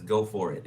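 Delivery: "Go for it" with a mild exclamation; exclamation point emphasis. Acted. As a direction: punch "Go for it" a little. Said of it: "exclamation point".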